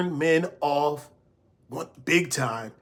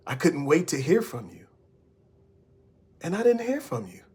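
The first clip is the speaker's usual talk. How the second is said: welcoming. Shown as a demonstration. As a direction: say it gently, drawing him in. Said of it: "It is welcoming".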